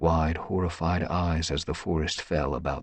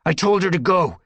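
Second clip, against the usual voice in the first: tom cat voice; 10 semitones higher, 5 dB louder than usual. A narrator's reading. Character voiced in story.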